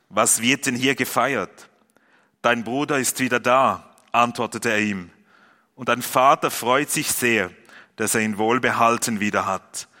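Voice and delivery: measured, even Bible reading to the congregation; scripture reading. Acted. Pastor reading Luke fifteen to the congregation, steady and clear. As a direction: read the passage clearly, like a lectern reading. Pastor reads Lukas 15 aloud.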